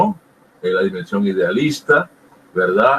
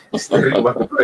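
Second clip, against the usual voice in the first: said through a light laugh; chuckling as he repeats it; faster than usual. Real, not acted. Laughing while repeating own point.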